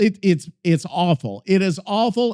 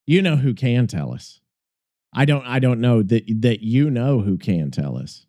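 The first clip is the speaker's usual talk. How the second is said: teasing sing-song; 10 semitones lower than usual. Pretend. Teasing repeat, breath running out.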